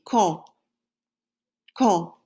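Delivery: quand with nasal on, no final d, like kahn; French quand. Shown as a demonstration. Teacher models quand for the class, nasal vowel. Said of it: "Say it after me".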